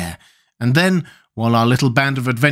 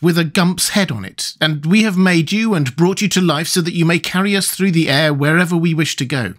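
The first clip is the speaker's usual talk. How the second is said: lightly voiced boy, higher; Tip's boy voice; 6 semitones higher than usual. A narrator's reading. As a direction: explain it in a higher boy's voice. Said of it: "answered Tip".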